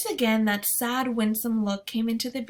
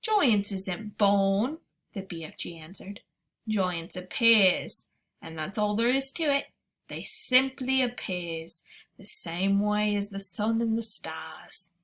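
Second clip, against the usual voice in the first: giant BFG voice. Acted. BFG speaks in story.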